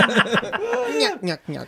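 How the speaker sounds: Jabberjaw laugh. Retold or imitated. Imitates Jabberjaw cartoon laugh.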